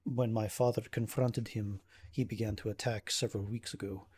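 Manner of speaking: measured, formal recounting, lightly acted; a hint of strain under careful phrasing; troubled nobleman. Ismark recounts the attacks to adventurer, understated troubled manner.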